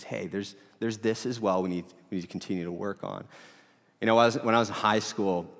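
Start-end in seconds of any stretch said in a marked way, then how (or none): 0.0-3.2 softly voiced gentle nudge. Holy Spirit nudging a believer about more work, softly and gently. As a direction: speak gently, dropping the volume. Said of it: "just softly and gently says".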